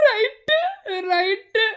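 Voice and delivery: drawn-out comic catchphrase, lifted at the end; Vadivelu catchphrase. Acted. Jealous admirer quotes comedian to himself, comic catchphrase. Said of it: "Vadivel சொன்ன மாதிரிதான்".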